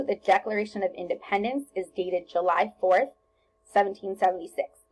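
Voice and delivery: a breath after fourth before seventeen seventy-six; pause at the comma. Shown as a demonstration. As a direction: read it with a short stop after fourth. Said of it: "you can actually even hear where I paused".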